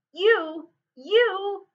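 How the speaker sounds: loud, high outburst of accusation; enraged cry. A narrator's reading. Dwarf king turns on the hobbit, crying out in rage. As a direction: cry out in fury, rising on the repeat. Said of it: "cried Thorin".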